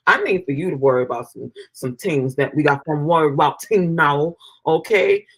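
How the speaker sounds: put-on Jamaican accent; lightly mocking Jamaican lilt. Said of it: "don't do the Jamaican accent".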